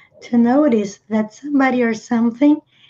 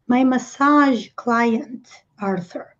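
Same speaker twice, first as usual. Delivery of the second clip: devagar, para o aluno; slower than usual. Shown as a demonstration. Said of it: "quando a Phoebe diz".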